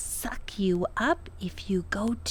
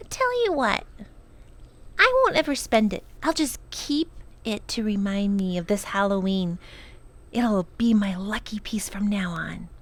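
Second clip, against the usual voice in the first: put-on a girl thrilled with her lucky piece; delighted girl; faster than usual. Lindy speaks happily, grateful.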